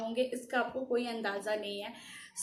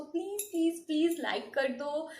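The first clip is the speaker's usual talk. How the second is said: higher-pitched coaxing plea; pleading; 4 semitones higher than usual. Real, not acted. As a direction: coax them with repeated pleases. Begging viewers for likes.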